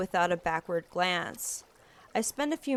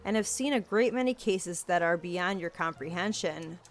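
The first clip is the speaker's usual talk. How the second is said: put-on stern older detective. Different grave character speaks.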